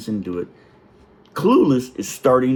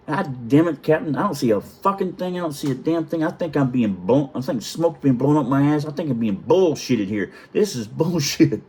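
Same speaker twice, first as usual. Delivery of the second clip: higher-pitched mock exasperated protest; retold frustrated rant, pitched up; imitated angry outburst; 5 semitones higher than usual. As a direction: act out a fed-up young sailor complaining to his captain. Frustrated kid protesting to the captain.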